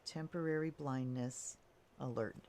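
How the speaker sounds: speaking through hiccups; hiccuping between words. Real, not acted. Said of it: "Pardon me, I got the hiccups".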